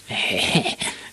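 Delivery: pleased little "heh"; short breathy laugh. Acted. Ivan, proud before the surprised witch, chuckling. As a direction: let out a small proud laugh.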